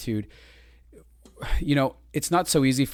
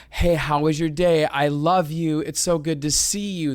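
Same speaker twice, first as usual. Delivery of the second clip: higher, cheerful welcome home; warm greeting; 4 semitones higher than usual. Retold or imitated. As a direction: greet them like you missed them. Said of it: "there's no".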